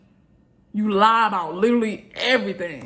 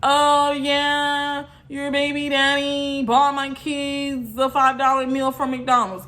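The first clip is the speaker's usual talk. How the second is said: higher, slow mocking voice of a gloating viewer; mock bragging commenter; 4 semitones higher, slower than usual. Mocking a live viewer, slow and higher. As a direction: drawl it out like a smug commenter. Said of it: "be like".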